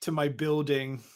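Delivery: slow imitated Philly "building"; "building" with swallowed L, Philly style; Philly accent. Co-host mimicking drunk native accent, slow Philly. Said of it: "No L's".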